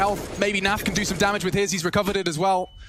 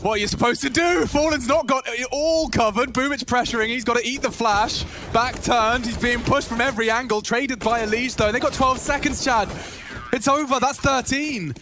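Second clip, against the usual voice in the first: excited play-by-play; 6 semitones higher than usual. Real, not acted. Hype call of round end.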